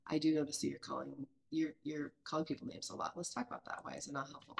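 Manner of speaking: soft, hushed and patient, almost whispered; calmly talking it over with a child; gentle private feedback. Shown as a demonstration. Parent quietly raising a problem with their child, softly.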